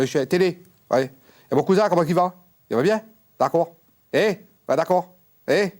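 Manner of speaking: chatty shouting down the phone; loud phone call. Acted. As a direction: medium shouting cheerfully at François Ier on the phone.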